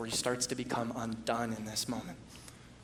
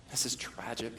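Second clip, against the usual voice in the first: hushed whisper; 6 dB quieter than usual. Real, not acted. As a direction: whisper it, barely voiced. Hushed aside on tragedy.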